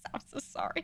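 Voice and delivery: quiet, soft, breathy whisper. Retelling how Lang quietly apologized in a game: imitating a quiet apology. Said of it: "He's just quietly".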